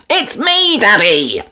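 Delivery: put-on high, piglet-girl voice; bright little girl gasp; young girl's delighted ooh; Peppa voice. A narrator's reading.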